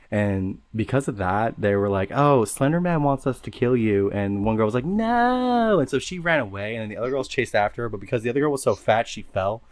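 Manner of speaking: lightly voiced valley girl. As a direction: tell it like a ditzy valley girl. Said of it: "Can you talk in a white girl voice?".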